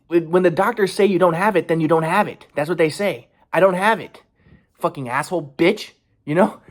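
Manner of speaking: angry, emphatic insistence; real anger. Real, not acted. Man defending himself against the diagnosis, really angry. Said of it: "so angry, but".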